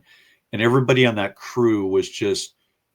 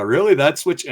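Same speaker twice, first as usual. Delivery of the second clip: amused disbelief; 6 semitones higher, 7 dB louder than usual. Retold or imitated. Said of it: "And I'm kinda laughing at it".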